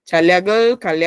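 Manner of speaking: "Chaleagol, cale aquí" as two unbroken runs; each three-syllable word of "Chaleagol, cale aquí" in one beat; run together. Shown as a demonstration. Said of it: "que se suenan de corrido".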